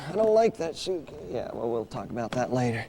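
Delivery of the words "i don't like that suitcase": a lightly higher dummy voice; puppet voice. Acted. Dummy Orson griping to his handler, lightly high voice. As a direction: grumble as the little puppet.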